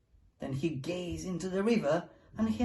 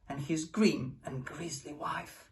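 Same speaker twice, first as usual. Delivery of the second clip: whisper; 5 semitones lower, 5 dB quieter than usual. A narrator's reading. Fleeing the grisly wife.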